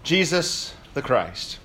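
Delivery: formal blessing, slowing and falling to a hushed amen; solemn benediction voice; liturgical greeting. Acted. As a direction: pronounce the blessing over the congregation. Liturgical greeting opening sermon.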